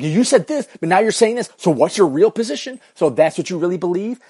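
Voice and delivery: mock lawyer grilling. Host grilling his co-host Grady, mock lawyer attack. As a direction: trap the witness, hammed-up lawyer. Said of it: "go full on lawyer mode".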